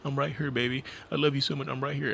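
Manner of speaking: high, pleading mock sob voice; mock crying plea. Mocking a man begging his partner on the phone, pleading. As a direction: ham up a desperate pleading lover. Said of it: "it sounds like the person is crying".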